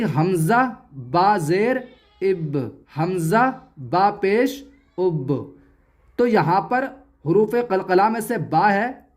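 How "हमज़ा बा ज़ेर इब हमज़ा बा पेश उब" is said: slow spelling, इब and उब each ending in a bounced b; qalqalah bounce. Shown as a demonstration. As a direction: release the b of इब and उब with a small jolt. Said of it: "ऐसे ही". (इब, उब के ब पर हल्का झटका)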